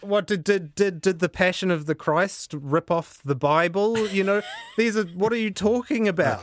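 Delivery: high-pitched, amused disbelief; real, laughing incredulity; incredulous challenge. Real, not acted. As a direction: protest as if the idea is absurd, voice riding up. Panellist mockingly challenges the suggestion.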